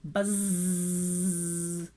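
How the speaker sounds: low droning buzz; bee buzz. Shown as a demonstration. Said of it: "buzz like a bee".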